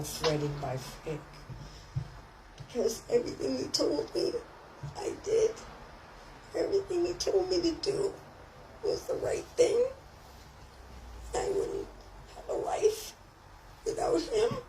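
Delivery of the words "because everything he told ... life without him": choked up, pitch jumping high; crying through the words; voice breaking. Real, not acted. Grieving for Frank, voice cracking with tears. Remembering dead friend, voice breaks.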